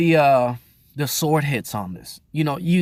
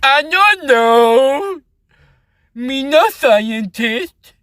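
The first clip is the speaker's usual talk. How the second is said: dumb caveman voice; 13 semitones higher, 9 dB louder, much slower than usual. Pretend.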